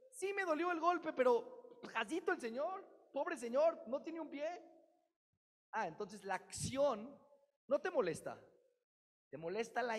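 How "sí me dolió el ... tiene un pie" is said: high, loud, pleading voice; pitying reply. Acted. Listener answering the preacher, high loud pleading. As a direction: defend the old man with pity.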